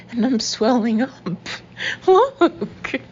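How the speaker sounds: panicked alarm. A narrator's reading. Woman panicking at her swelling skin to her boyfriend, high and loud. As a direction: cry out in panic, pointing him to look.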